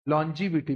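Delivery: teacher models लॉन्जिविटी as lon-ji-vi-ti with a falling close; pronunciation demo. Shown as a demonstration. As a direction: spell out लॉन्जिविटी clearly for the class to repeat. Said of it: "लॉन्गी नहीं बोलते, क्या बोलते हैं?".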